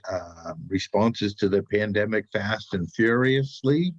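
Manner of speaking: blocked nose, congested speech; stuffy nose. Real, not acted. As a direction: talk through a stuffed-up nose. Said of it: "now I can't breathe through my nose".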